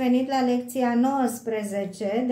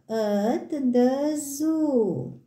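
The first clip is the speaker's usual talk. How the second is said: "At the Zoo" said slowly, each word apart; slow careful repeat; much slower than usual. Shown as a demonstration. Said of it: "slow repeat for children".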